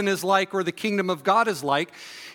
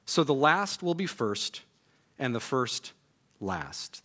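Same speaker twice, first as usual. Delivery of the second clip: measured, understated public Bible reading; scripture reading. A narrator's reading. Pastor reads a parable to the standing congregation, measured scripture reading. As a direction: read the passage evenly, pausing between phrases.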